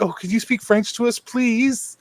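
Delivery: high, breathy-sounding imitation of two party girls begging; party girls begging him to speak French, mock high voice; mock girly plea.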